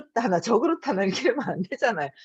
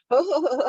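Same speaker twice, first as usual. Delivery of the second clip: mock "heh heh heh", higher pitched; lightly put-on chuckle; imitated chuckle; 5 semitones higher, 4 dB louder than usual. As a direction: imitate dad laughing it off. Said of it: "하면서 우는 거예요".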